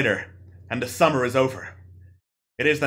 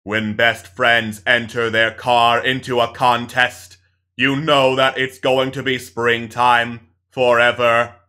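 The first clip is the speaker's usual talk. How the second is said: solemn chorus; 3 semitones lower, 4 dB louder, slower than usual. Acted. All speak in unison.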